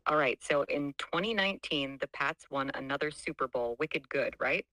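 put-on weak Boston accent, wicked good; a hint of Boston in the vowels. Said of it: "speak in a Boston accent".

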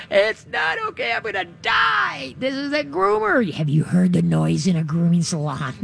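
dog panicking in the parking lot; panicked dog. Retold or imitated. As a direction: play the terrified dog at the groomer. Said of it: "the dog is like".

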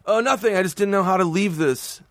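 high, sheepish excuse; awkward. Retold or imitated. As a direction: fumble it out embarrassed. Awkwardly explaining hugging cop.

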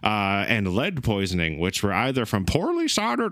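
high, laughing Italian accent; hammed-up Italian accent. Shown as a demonstration. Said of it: "Main speaking Italian".

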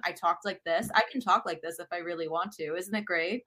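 accent-free newscaster delivery. Shown as a demonstration. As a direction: switch to a smooth TV newscaster. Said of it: "that's like your newscaster voice".

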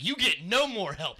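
hammed-up loud dismissal; retold snap. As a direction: spell it out, slow and final.

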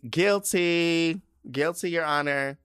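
high, loud, unrepentant guilty plea; hammed-up defiant courtroom confession; proud defendant. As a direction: proclaim it to the judge with relish. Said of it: "What do you plead?".

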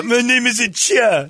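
high, loud, slow imitation Asian accent; mock Asian accent. Golfer correcting his partners, mock Asian accent. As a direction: drag it out in an exaggerated Asian accent. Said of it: "Cha was pretty sweet".

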